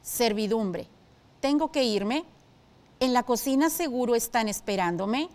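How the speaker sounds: "irme" and "esperándome" both lifted into a questioning rise; hesitant, questioning reading; doubtful questioning tone. Shown as a demonstration. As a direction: read it unsure, as if asking. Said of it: "hagamos caso a los signos de puntuación".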